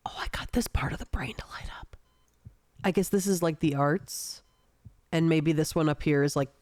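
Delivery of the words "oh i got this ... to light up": whispering. Real, not acted. Musing quietly over a picture.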